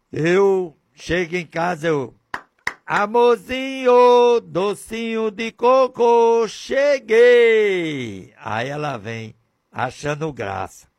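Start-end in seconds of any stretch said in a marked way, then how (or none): 2.9-8.3 high, slow, hammed-up doting voice; mock sweet husband. Preacher showing husband greeting wife, hammed-up sweet. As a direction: overdo the sugary pet names.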